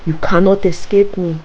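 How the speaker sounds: screamed threat. Acted. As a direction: yell it after her down the path. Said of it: "the witch screamed".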